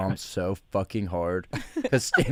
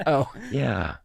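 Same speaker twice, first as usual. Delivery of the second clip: robot voice; 4 semitones higher than usual. Pretend. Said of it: "in the robot voice".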